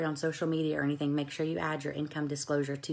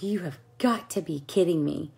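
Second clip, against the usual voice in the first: breathless disbelieving whisper; stunned whisper; 3 dB louder than usual. Retold or imitated. Learning her boss joined, stunned whisper. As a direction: whisper it in shock.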